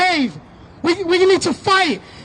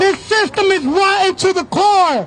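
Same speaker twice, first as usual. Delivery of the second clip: rally shout; 3 semitones higher than usual. Real, not acted.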